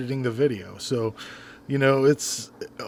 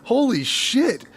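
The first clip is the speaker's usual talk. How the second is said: high, loud mock disbelief, slowing on I'm fifty; shocked at fifty; 9 semitones higher, 5 dB louder, slower than usual. Imitating someone just hit fifty, high loud shock. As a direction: ham up the horror of turning fifty. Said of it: "it's just like".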